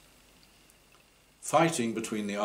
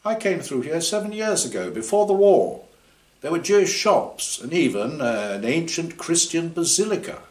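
keeps the high piping voice, a little louder; higher voice, insisting on what he saw; high-voiced team member insisting; piped up; 9 semitones higher, 5 dB louder than usual. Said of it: "one of the others piped up".

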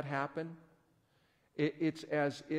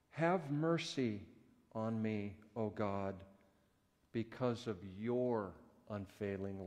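solemn psalm reading. Acted. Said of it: "Listen to what David wrote".

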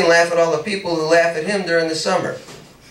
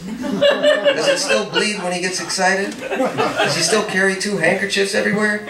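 mocking laugh; 3 semitones higher than usual. Mocking Edmund's nosebleeds.

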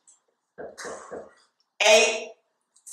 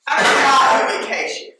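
emphatic shout; 4 semitones higher, 5 dB louder than usual. Real, not acted. Emphatic quiz question.

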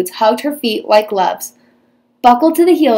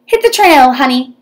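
put-on high, loud hearty old cowgirl; 4 semitones higher, 5 dB louder than usual. A narrator's reading. Fairy godmother sending Cindy off, loud old cowgirl. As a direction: send her off with a hearty holler. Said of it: "said the old lady".

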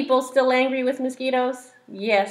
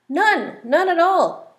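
high, slow hissy cry; lazy hissy iguana; 8 semitones higher, 7 dB louder, slower than usual. Acted. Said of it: "cried the iguana".

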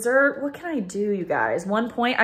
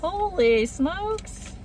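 amazed; 10 semitones higher, much slower than usual. Real, not acted. Amazed at the deal.

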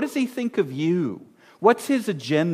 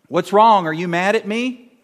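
anxious spouse; 3 semitones higher, 4 dB louder than usual. Retold or imitated. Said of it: "said to your husband or wife".

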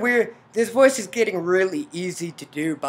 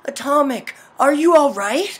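raised, questioning story voice; concerned character; 8 semitones higher, 8 dB louder than usual. Acted. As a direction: act out checking on someone unwell. Mother checks on dizzy heroine.

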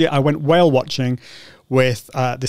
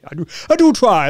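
higher, louder hammed-up posh British accent; 7 semitones higher, 4 dB louder than usual. Shown as a demonstration. Playing up to a viewer's compliment in a mock posh British accent. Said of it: "That's my, my posh British accent".

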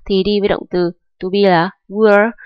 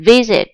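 "Visit" stressed on the opening Vi-; stress on first syllable. Shown as a demonstration. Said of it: "trọng âm rơi vào V". (Visit, nhấn trọng âm vào âm tiết đầu "Vi")

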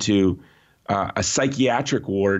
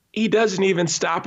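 ordinary talk, nothing marked

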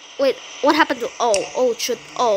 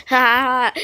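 evil laugh; 4 semitones lower than usual. Pretend. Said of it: "Evil laughing, evil laughing".

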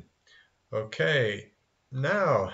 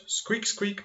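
high little mouse squeak; high-pitched mousy squeaking; 7 semitones higher, 3 dB quieter than usual. Shown as a demonstration. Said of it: "animal voices".

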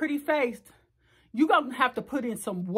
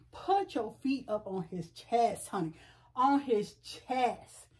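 slow instruction; 2 semitones lower, 5 dB quieter, slower than usual. Shown as a demonstration. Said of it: "When you on your back".

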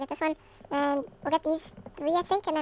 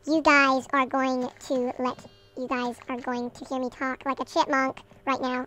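very slow, stretched-out words; slow right down for the sped-up video; deliberately drawn-out delivery; slowed-down speech; much slower than usual. Shown as a demonstration. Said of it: "I'll slow it down for you".

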